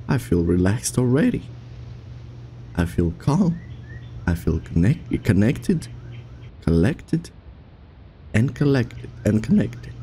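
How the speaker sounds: soft sing-song self-soothing; whisper-soft mock affirmations; mock calm mantra.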